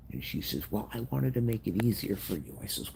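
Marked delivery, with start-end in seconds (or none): 0.7-2.6 lightly imitated mother, pitched up; a higher-pitched hint of a defensive mother; mother's excuse. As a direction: mimic mom defending herself in a higher voice. Retells mother's excuse in argument.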